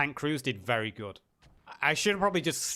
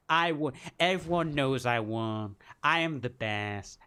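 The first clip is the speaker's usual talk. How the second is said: lightly voiced Trump bragging; a hint of Trump boasting; Donald Trump impression. Streamer mocking the vote as Trump, lightly voiced. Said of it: "I can't do Donald Trump".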